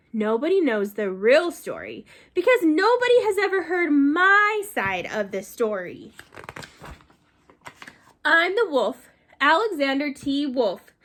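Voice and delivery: lively storybook reading as the wolf; reading to children. Acted. Teacher reading the wolf's story to children, lively. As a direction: read it to the class like the wolf telling his side. Reads book aloud as wolf.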